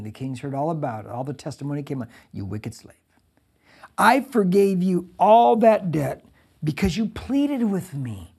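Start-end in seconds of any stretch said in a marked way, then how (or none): 2.3-8.3 the lord rebuking the slave, slow and heavy; stern king. Retold or imitated. King condemning the unforgiving slave, slow and stern. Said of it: "his lord said to him".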